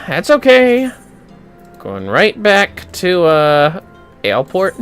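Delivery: ordinary delivery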